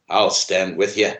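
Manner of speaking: slow, mock English accent. Blacksmith pledging to fight, in an amateur English accent. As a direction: attempt an English accent, drawn out. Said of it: "That was my English accent".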